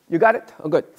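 usual speaking voice

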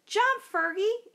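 slow, high, loud yell; yelled warning. Acted. Roger yells at Fergie to escape the children, slow and high. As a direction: warn your sleeping friend to jump. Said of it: "yelled Roger".

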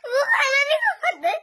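tearful protest; crying as you plead. Real, not acted. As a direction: argue through real sobs. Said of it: "इसे रोना नहीं।".

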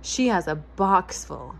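bright, gently animated storybook reading; reading to children. A narrator's reading. Host reading a picture book aloud to young listeners, lively storytelling. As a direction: read it like a bedtime picture book for kids.

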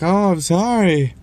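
high, slow whiny mimicry of her excuse; mocking her excuse. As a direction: parrot her sorry in a high, drawn-out sing-song. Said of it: "she's like".

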